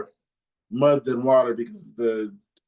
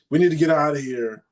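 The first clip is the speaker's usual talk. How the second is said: mildly angry urging, a little higher; retold anger; 5 semitones higher, 4 dB louder than usual. Son retelling his panicking dad urging everyone out, mildly angry. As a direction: imitate an agitated dad, half-heartedly. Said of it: "he's getting angry".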